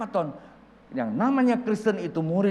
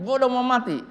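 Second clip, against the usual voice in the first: high, loud mock lament; exasperated protest; 8 semitones higher, 7 dB louder than usual. Old pastor says heaven awaits him, protesting loudly.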